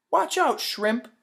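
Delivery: mocking bully voice; bully taunt. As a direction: sneer it at the little kid. Bully insulting Felix.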